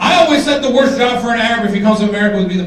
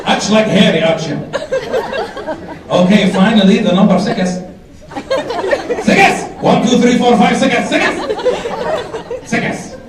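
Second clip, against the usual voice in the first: put-on Arab accent; 2 semitones lower than usual. Arab call agent acted out.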